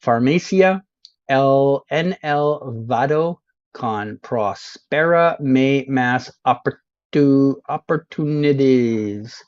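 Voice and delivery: slowly over-pronounced Spanish sign reading; mock Spanish. Streamer showing off his Spanish to viewers, slow mock Spanish. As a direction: read each Spanish sign like a confident local. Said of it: "I'm doing this perfectly".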